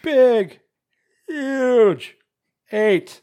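high, loud comic character voice; Mark McKinney. Acted. Host mimicking a sketch comedy bit, booming impression. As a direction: belt each word out big, high and drawn-out. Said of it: "You sounded like Patrick Warburton when you did it".

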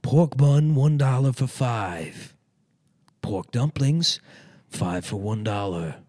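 slow caricatured street-vendor call; Chinese dumpling lady. Acted. Chinese lady selling dollar dumplings on Mott Street, slow loud hawking. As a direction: call out the prices, stretching each one. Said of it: "I can't do the voice".

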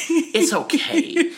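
very slow, drawn-out soothing counselor; exaggerated slow reassurance; calm therapist. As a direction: stretch it out like a comforting therapist.

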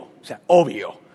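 slow, drawn-out obvio, as if it goes without saying; obvious tone. Shown as a demonstration. Pastor models the obvious tone for the congregation, drawn out. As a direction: stretch out obvio like it's self-evident. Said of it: "lo van a decir con un acento de obvio".

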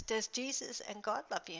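softly retold soothing question; calming mother. Mother soothing her crying daughter, soft calming retelling. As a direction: ask gently, in a hushed retelling. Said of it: "I calmed my daughter down".

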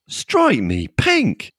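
slow, lightly voiced British copper; old-fashioned bobby. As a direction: drawl it like a period policeman. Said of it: "policeman whose cry of".

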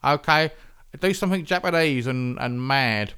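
lightly voiced film director calling action; Quentin Tarantino. Host imitating a director ordering up blood, loose impression. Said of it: "He talks like this".

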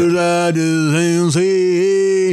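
slow, sung through compression; tinny processed singing voice; metallic voice. Acted. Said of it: "you sound metallic".

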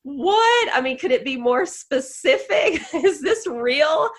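stunned delight at the book's match; astonished disbelief. Retold or imitated. To her host, stunned and laughing in disbelief. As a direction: pitch jumps high on What, then laughs through the rest. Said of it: "And I'm just like".

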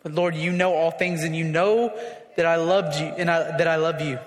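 low-pitched, subdued prayer to the Lord; humble confession. Acted. Acted humbled Peter confessing to Jesus.

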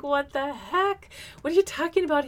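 high-pitched, indignant disbelief; retold incredulous reaction. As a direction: act out being taken aback, pitch jumping up. Retelling her alarmed reaction at school.

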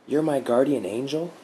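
a lightly voiced stunned young man; wondering Mark. A narrator's reading. Mark asks, astonished.

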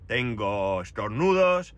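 congested voice from a head cold; stuffy nose. Real, not acted. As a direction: talk through a blocked nose. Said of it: "la voz me la notaréis extraña".

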